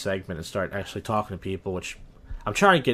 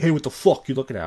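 raised, louder tough-guy challenge; mock confrontational; 4 semitones higher, 5 dB louder than usual. Showing how he didn't say it to the starer, mock confrontational. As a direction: act out picking a fight. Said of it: "I didn't say it like".

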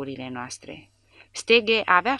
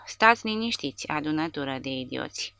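yelled order. Acted. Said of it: "vocea lui Paust urla".

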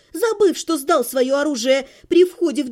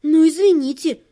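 grumbled; 5 dB louder than usual. Acted. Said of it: "буркнула я".

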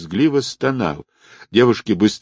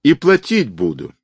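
high-pitched panicked cry; high, restrained wail; frantic wail; 6 semitones higher than usual. A narrator's reading. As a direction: cry out desperately, begging to be spared. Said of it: "истошно завопил обрюзший".

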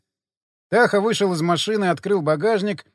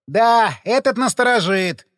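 laughing; 6 semitones higher, 5 dB louder, slower than usual. A narrator's reading. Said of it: "засмеялся Ходокири".

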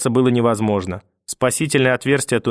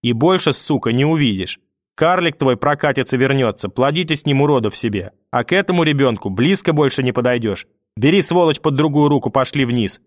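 hint of a hard old woman's voice; grandmother threatening; 2 semitones higher than usual. Grandmother threatens the mother never to see the boy, lightly voiced. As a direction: threaten her coldly.

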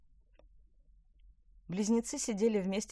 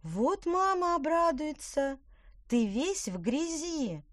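scolding sister; 10 semitones higher, 4 dB louder, slower than usual. Acted.

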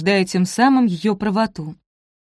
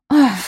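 sharp gasp; 5 semitones higher, 6 dB louder than usual. A narrator's reading. Sudden exclamation.

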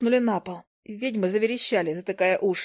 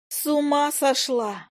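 angry yell; 6 semitones higher, slower than usual. Acted. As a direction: yell it right in her face. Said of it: "гневно заорала Файка".

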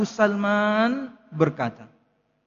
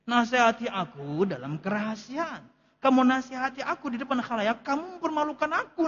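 quoting Imam Syafi'i; 3 semitones higher than usual. Retold or imitated. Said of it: "Perkataan Imam Syafi'i kan juga kayak gitu".

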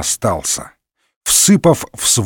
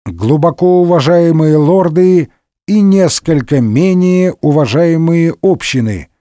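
raised, measured formal address; speech opening; 3 semitones higher than usual. A narrator's reading. Speaker of parliament addressing lords and commons, formal speech opening. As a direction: open a session with pompous address. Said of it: "начал свою речь спикер".

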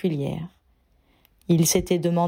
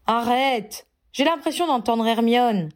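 a light grumble, a bit higher; grumbling; 4 semitones higher than usual. Acted. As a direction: grumble it out, mildly put out. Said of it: "bougonna Ron".

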